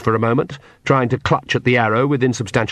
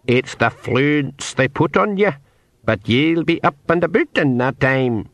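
put-on Scottish-tinged old pixie voice; 4 semitones higher than usual. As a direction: explain it in a pixie burr. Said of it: "said the pixie".

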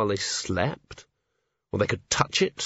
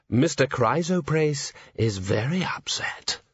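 slow, unvoiced threatening whisper; menacing whisper; 4 semitones higher, slower than usual. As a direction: hiss it slowly from a dark alley. Menacing voice from alley.

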